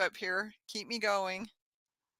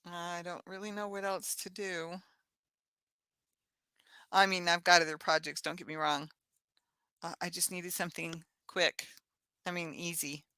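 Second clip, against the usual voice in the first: drowsy, quiet and fading; half asleep, words drifting off; nodding off; 3 semitones lower, 5 dB quieter than usual. Real, not acted. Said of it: "I'm falling asleep now".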